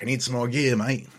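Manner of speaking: a light Australian twang on the quote; casual Australian mate voice, lightly done; Australian accent. Retold or imitated. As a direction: slip into a mild Australian accent. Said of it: "I don't know why I got Australian".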